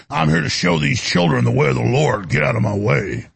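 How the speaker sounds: quoting a creep who says he's doing the Lord's work; imitating an angry preacher. Retelling the angry man who blocked the crew, lightly voiced low. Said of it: "the guy's so angry, he goes".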